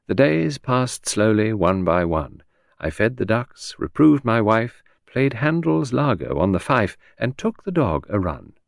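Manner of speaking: slow, lilting recitation; reciting a poem. Acted. Henrietta quoting a poem to Poirot, light recital. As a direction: quote the verse playfully. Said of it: "Do you know that nice poem?".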